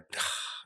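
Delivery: slow breath let all out; long sigh. Shown as a demonstration. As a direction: exhale everything in one long breath. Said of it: "and just breathe and let it all out".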